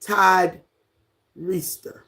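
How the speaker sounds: Reister with a long EE, REE-ster; spelling pronunciation. Shown as a demonstration. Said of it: "But it's".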